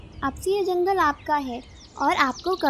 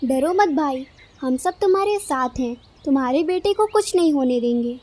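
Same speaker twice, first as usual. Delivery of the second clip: supportive pigeon friend. Acted. Pigeon promises the frightened father support, firmly reassuring.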